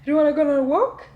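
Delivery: quick, rising excited questions; hyping up the dog. Real, not acted. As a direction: wind the dog up for a walk. Teasing dog about a walk.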